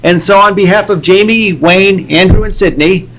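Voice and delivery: steady host outro read; podcast sign-off. Acted. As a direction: sign the show off like a radio host. Closing sign-off.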